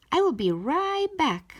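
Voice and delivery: yelled. A narrator's reading. Child calls to mom before running off, yelled. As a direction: shout it out quickly while leaving. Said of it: "I yelled".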